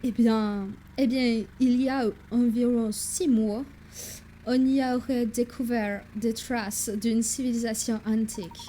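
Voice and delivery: hammed-up English accent, drifting German; French with a wobbly English accent; English accent slipping into German. Professor recalls a discovery, English accent veering German. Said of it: "mon accent anglais qui vire vers l'allemand".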